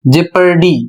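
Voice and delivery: जेपर्डी said as "jepardy", the o silent; correct English pronunciation. Shown as a demonstration. Teacher modelling the silent o for students, जेपर्डी as je-par-dy. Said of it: "इसका उच्चारण होता है".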